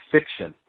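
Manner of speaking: fiction set apart after a pause; stress on fiction. Shown as a demonstration. Stressing fiction to mark it as made up. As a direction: lean on the word fiction. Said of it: "I can also emphasize the word".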